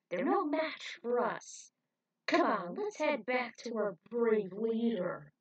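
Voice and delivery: high, slow, odd cocky voice; boastful mutant. Acted. Mutant cheers to the others, boastful. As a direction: gloat over the kickers' win.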